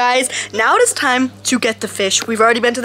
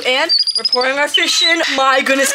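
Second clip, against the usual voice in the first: ordinary delivery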